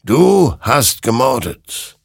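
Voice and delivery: accusing verdict. A narrator's reading. Creature charges Hector with murder, slow loud accusation. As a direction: land the verdict slowly and forcefully.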